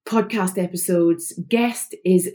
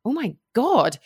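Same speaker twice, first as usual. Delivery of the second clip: higher, quick, gasping fan voice, imitating her husband; mock excited husband; 6 semitones higher than usual. Host imitating her husband thrilled about the guest, excited gasp. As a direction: play the starstruck husband with a gasp. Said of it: "he was like".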